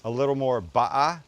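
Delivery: a light British "ba'a" with dropped t; British accent. Retold or imitated. Imitating British chef Gavin saying "ba'a". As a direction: say "ba'a" like a Brit, no t, no r. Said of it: "Gavin, who's a Brit, says".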